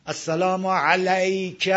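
"علیک" drawn out with a pure open a before y; without imala. Shown as a demonstration. Teacher shows the version lacking imala, "علیک" slow and open. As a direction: stretch "علیک" with no tilt toward e. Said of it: "این اماله نداره".

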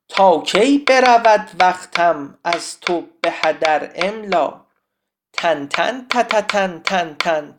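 drawn-out verse answered by evenly beaten syllables; metrical verse recital. Shown as a demonstration. Teacher demonstrates the poem's rhythm, measured chanting. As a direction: scan the poem aloud, slow and rhythmic.

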